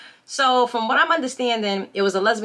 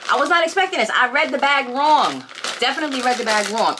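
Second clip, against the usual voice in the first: surprised reaction; 3 semitones higher than usual. Real, not acted. Surprised by snack taste.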